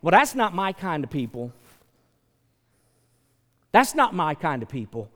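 dismissive, mock snob; a touch of snobbery; snobby dismissal. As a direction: turn up your nose at them. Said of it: "but we say".

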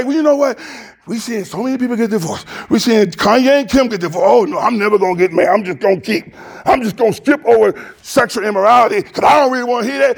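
fast, lightly voiced excuse-making churchgoer; mock churchgoer. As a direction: rattle off excuses like a dodger. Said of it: "We couldn't just say".

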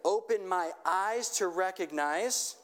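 slow, lifted prayer line for repeating; slow led prayer. Shown as a demonstration. Pastor leading the congregation in a slow call-and-repeat prayer. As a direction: pray it slowly so they can echo. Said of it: "just repeat after me".

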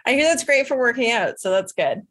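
chuckling through the words; laughing while joking. Real, not acted. Laughing with guest.

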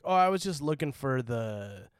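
"for" reduced to "fur"; Utahn "for". Retold or imitated. Retelling the slip that got him questioned, "for" as "fur". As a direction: say "for" like "fur", slowing down. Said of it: "Why'd you say fur?".

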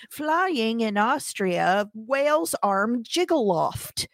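very slow, deliberate nonsense reading; mock subtitle readout. Mocking garbled subtitles of an accented speaker, slow deadpan absurdity. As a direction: spell out the gibberish with slow relish.

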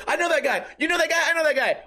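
high-pitched mock yell, quick back-and-forth; retold excited yelling. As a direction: imitate two guys calling out over each other. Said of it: "we're yelling at each other".

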